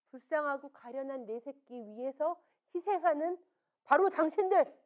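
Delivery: quoting the teacher's hard verdict to the mothers; blunt teacher's verdict. Retold or imitated. Teacher telling mothers bluntly they hate their child. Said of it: "그분이 하시는 말씀이".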